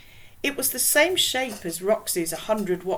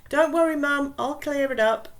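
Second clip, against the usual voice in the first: higher, louder call down the hall; 8 semitones higher, 7 dB louder than usual. Acted. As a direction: call out to reassure mum.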